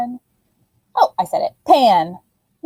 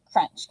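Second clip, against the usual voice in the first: a soft laughing crunch; playful bitten-pickle crunch; crunch sound; 7 dB quieter than usual. Shown as a demonstration. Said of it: "it goes".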